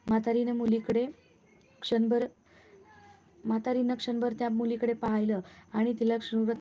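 plain reading voice

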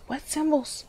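mock-exasperated high whine; whiny. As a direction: complain to the game like a frustrated kid. Repeats, whining high.

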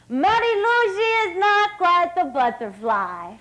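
a light Hungarian coach voice, teasing; coach's dry verdict in a mock Hungarian accent; imitating coach's accent. Coach's remark quoted.

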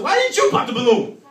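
loud, laughing comeback; mock retort. Passenger laughing back at the annoyed mother. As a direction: fire the question right back, laughing.

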